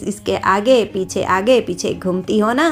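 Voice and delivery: sneering mother-in-law scolding; mocking old matriarch berating her daughter-in-law; scornful taunting. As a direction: belittle her in front of the new bride. Grandmother-in-law taunts Shanti at dinner.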